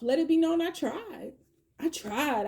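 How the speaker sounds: pleading voice. Pretend. Voicing person, higher take.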